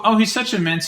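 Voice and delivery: retelling a congressman's fake Yiddish accent, mocking. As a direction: imitate him gushing in a fake Yiddish accent. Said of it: "he assumed a fake Yiddish accent".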